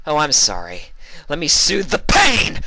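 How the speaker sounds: mock sorry rising to loud high roar; sarcastic sweet into a roar; roaring mockery. A narrator's reading. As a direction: taunt then roar. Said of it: "Vinyl roared".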